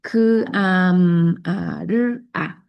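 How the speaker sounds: "k, am, a, r, a" cada sonido aparte, con pausas; sonidos separados. Shown as a demonstration. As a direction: como un niño que separa "cámara" en sonidos. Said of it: "va a separar los sonidos". (el niño separa "cámara" sonido por sonido)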